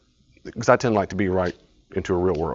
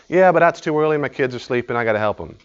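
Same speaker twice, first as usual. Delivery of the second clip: louder, higher excuse; whiny excuse; 4 semitones higher, 3 dB louder than usual. Retold or imitated. Woman refusing an early gym time, whiny. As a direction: wave it off again. Acting yes-but excuse.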